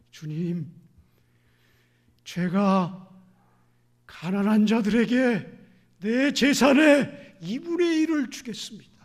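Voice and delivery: Zacchaeus vowing. Acted. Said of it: "삭개오가 어떻게 됐죠?".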